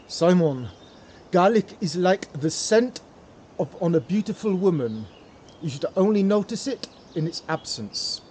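bad French accent, lightly put on; a hammed-up Parisian gangster's French accent. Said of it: "That's probably a really bad French accent".

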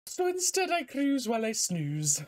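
character voice slipping into Scottish; a hint of accidental Scottish; Scottish accent. Real, not acted. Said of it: "slipping into an, into a Scottish accent".

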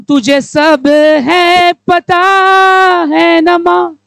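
slow, loud, drawn-out plea to mother; mock whine to mom; pleading to mom. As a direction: stretch the words out like a whining child. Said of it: "I tell to my mom".

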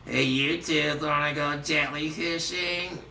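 lightly voiced cartoon sea sponge; SpongeBob SquarePants. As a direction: do a mild cartoon sponge impression. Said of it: "Or how about SpongeBob SquarePants?".

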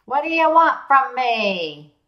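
put-on slow, loud Northern accent quote; hammy Northern accent. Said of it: "I really do a great Northern accent".

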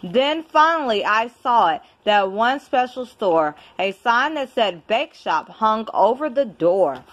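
lively storybook reading with rhyme; reading to a child. Acted. Parent reading a rhyming book to a child, storytelling voice. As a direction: read it like a bedtime picture book. Reads picture book aloud.

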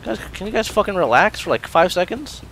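high, fed-up complaint; exasperated plea. Real, not acted. Gamer asking enemies to relax, exasperated high plea. Begs enemies to stop attacking.

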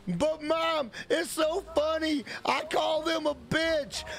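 hammed-up kid begging to stay online; whiny son. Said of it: "son pleading".

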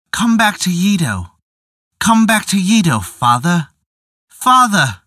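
put-on childish voice rising to a shriek; wailing child calling her father; quavering childish wail. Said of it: "The quavering childish voice rose to shriek".

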